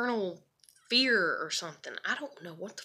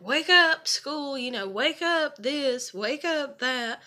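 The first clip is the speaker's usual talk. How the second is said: bossy parent calling; 8 semitones higher, 9 dB louder, slower than usual. Retold or imitated. Adults ordering her awake as child.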